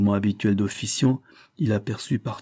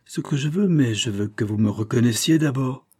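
nasty voice; 3 semitones higher than usual. Acted. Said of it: "d'une voix méchante".

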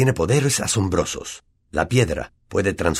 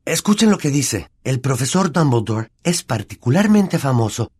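excited; 9 semitones higher, 4 dB louder than usual. Acted. Harry excitedly reads card.

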